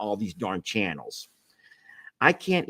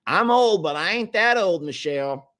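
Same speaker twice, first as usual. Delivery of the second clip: laughing retort; 8 semitones higher than usual. Real, not acted.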